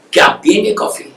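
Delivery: hesitant, half-whispered question; timid offer. Retold or imitated. Poor man nervously offering coffee to the visitor, half-whispered. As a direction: ask nervously, barely voicing it. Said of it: "ڈرتے ہوئے کہا".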